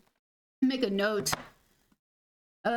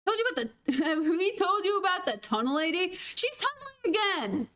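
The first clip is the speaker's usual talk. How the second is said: higher, lively mock-gossip quote; friends telling on her; 4 semitones higher than usual. Friends gossiping about the tunnel lady, mock excited. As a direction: imitate friends passing on news about someone. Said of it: "and they're all like".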